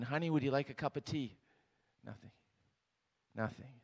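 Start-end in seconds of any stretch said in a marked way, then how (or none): 0.0-1.4 husband calling to his wife; yelled out. Retold or imitated. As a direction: call out to the next room. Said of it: "he yelled out from the kitchen".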